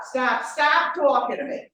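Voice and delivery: firm mock interruption; cutting in. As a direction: cut off a rambling caller. Trainer cutting off caller.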